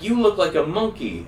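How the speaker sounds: high, loud goofy taunt; goofy high blurt. Retold or imitated. Stoned teen blurting a taunt at a friend, high and goofy. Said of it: "I was like".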